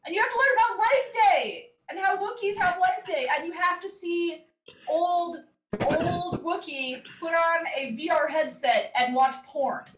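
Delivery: rising, loud, fast rant; excited. Real, not acted. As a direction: gush about it, building up. Excited rant about Wookiee special.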